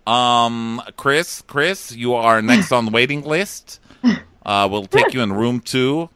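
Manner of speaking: awkward interruption. Retold or imitated. Co-host as Christina interrupting the flirting, awkward announcement. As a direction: imitate an awkward call from the waiting list. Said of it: "It's so awkward. She's like".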